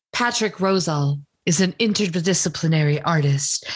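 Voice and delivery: lightly affected poetry-reading voice; measured, solemn recitation imitation; Sylvia Plath. Shown as a demonstration. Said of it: "call it my Sylvia Plath voice".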